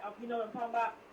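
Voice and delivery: imitated Southern slang, slurring "talking about" into "talmbout"; Southern vernacular. Woman imitating a writer who mimics Southerners, Southern vernacular. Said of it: "that's a Southern kind of vernacular".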